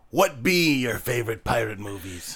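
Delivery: pirate grammar in a pirate voice. Shown as a demonstration. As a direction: say it like a ship's captain. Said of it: "Oh, sorry".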